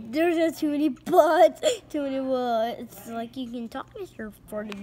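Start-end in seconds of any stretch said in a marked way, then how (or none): 0.1-2.8 giggling through the line; laughing. Real, not acted. Reader giggling at the butt joke. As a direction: laugh through the silly words.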